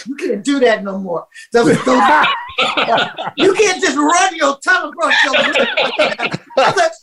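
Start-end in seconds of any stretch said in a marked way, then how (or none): 0.1-5.7 mock reply. Acting out Najee's mocking reply, laughing.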